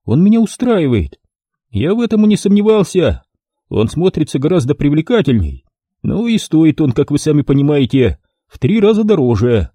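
a lightly voiced shady photographer. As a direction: play the dealer selling his offer. Photographer's dialogue, narrator voicing.

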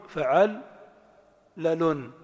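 فعل as fa'al, pause, لال as lalun; two measured beats, فعل then لال; syllable-by-syllable. Shown as a demonstration. Teacher sums up the pattern, syllables apart. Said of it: "المجموع".

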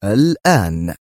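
gruff one-word demand; firm, coarse insistence; rough. A narrator's reading. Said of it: "قائلا في خشونة".

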